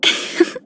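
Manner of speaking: quiet, airy chuckle; soft little laugh. Acted. Musing on plushies for Miss March, soft laugh. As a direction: give a small, soft laugh.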